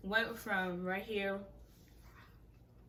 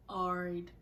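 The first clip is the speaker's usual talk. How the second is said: even, unbothered short reply; imitating a couldn't-care-less texter; nonchalant. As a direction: drop it with no interest. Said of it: "every nonchalant response".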